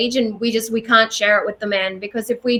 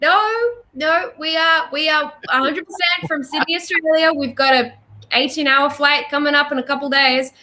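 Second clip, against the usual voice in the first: higher-pitched, mock-earnest protest; retold insistence; 6 semitones higher than usual. Visiting singer tells doubtful local where they're from, retold insistence. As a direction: insist on it, pitched up, as if correcting him.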